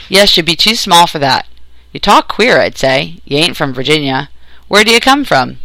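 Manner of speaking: lightly voiced country captor, sizing up a stranger; gruff country captor. Captor sizes up the strange boy, lightly gruff country voice.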